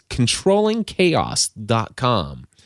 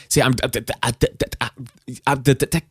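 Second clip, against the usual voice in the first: real stumble, restarting over and over; stumbling; 3 dB quieter, much faster than usual. Real, not acted. Host stumbling over words while explaining podcast editing. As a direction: trip over the words, restarting each time. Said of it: "you see how I'm stumbling over that?".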